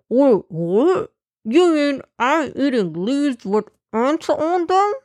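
rising alarmed question; outraged gasp of surprise; shocked disbelief. Acted. Brother shocked by ants.

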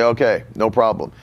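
low, easygoing acknowledgment in a quote; Brother Hagin. Retold or imitated. Veteran preacher answering a line of publishing requests, lightly voiced, low and easygoing. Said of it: "All right, he'd say".

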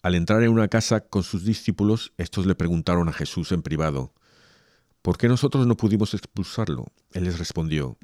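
solemn, measured liturgical reading; Gospel proclamation. Acted. Reader proclaims Mark's Gospel to the faithful, solemn.

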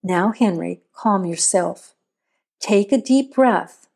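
understated soothing mother voice. Acted. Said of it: "the same soothing voice she'd always used".

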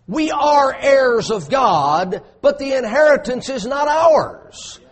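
preaching shout. Real, not acted.

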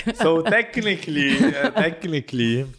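slow, laughing hedge. Real, not acted. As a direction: stall with a laugh.

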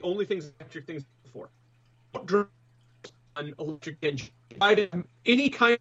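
choppy, dropping-out connection; radio breaking up. Real, not acted. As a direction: voice cutting in and out over a bad line. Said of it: "Alan, you're breaking up a lot".

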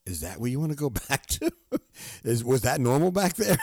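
amused, doubting question with a laugh; laughing disbelief. Retold or imitated. Talking to himself about going back to normal, laughing in disbelief. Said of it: "I say to myself".

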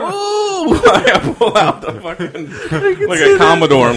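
put-on old Southern gentleman. Commodore character bit.

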